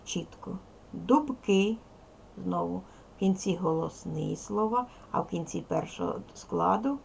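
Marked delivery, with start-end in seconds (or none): 0.9-1.8 Дубки with a clearly voiced B before К; teacher's careful, higher-pitched Дубки with ringing B; voiced consonant. Shown as a demonstration. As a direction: keep Б in Дубки as B, never P. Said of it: "дзвінкий приголосний".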